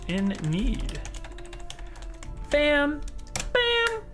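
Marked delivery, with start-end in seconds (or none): 2.5-4.0 excited shout. Real, not acted. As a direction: pop each one out, thrilled. Excited reaction to donation.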